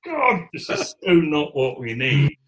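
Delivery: high, loud, slow wail of dismay; a hint of a panicked wail; horrified thought. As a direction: cry out in half-comic horror. Dismayed thought during bomb scare.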